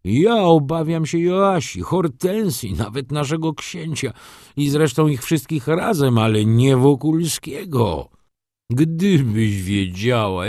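an aging father pouring out his distress; agitated old father. A narrator's reading. Father defends Wokulski to his daughter, high and tearful.

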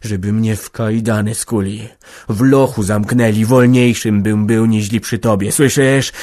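loud, bitter words into her face; husband hurls his resentment at his wife; bitter outburst. Acted. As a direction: spit the grievance in her face. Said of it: "w samą twarz powiedział".

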